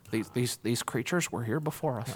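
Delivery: soft, halting mock-Goldblum musing; Jeff Goldblum impression. Mocking Jeff Goldblum's courtroom speech, hushed and halting. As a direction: stammer it out like a quirky scientist. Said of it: "Jeff Goldblum being all funny and weird".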